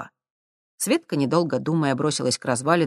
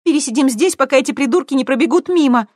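higher, louder, quick; tossed over shoulder; 10 semitones higher, 8 dB louder than usual. A narrator's reading. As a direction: fling it back while hiding. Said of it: "бросила она через плечо". (бросить через плечо)

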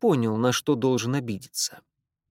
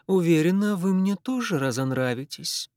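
put-on Irish accent; 4 semitones higher than usual. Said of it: "сильный ирландский акцент".

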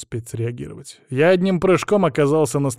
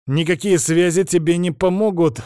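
slow, higher-pitched angry menace; malicious threat; 5 semitones higher, slower than usual. A narrator's reading. Boss warning the hostage over the phone, venomous. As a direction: measure out each word with malice. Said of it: "процедил со злобой в голосе".

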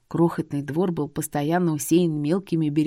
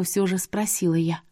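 ordinary delivery, nothing marked

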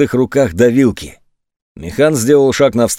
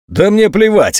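higher, barked dismissal; barked retort; 8 semitones higher than usual. A narrator's reading. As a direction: bark it at the boy. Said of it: "рявкнул Механ".

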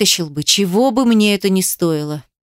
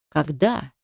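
softer, low wondering question; hushed inner question; 5 semitones lower, 6 dB quieter than usual. A narrator's reading. Man asking himself in thought, soft low question. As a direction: ask it to yourself under your breath.

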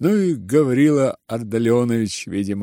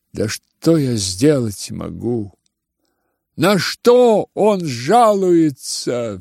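slow, sneering outcry; exclaiming with bared teeth; 3 semitones higher, 4 dB louder, slower than usual. Acted. Ippolit to the family, sneering outcry. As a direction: spit it out with a sneer. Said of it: "вскричал Ипполит, скаля зубы".

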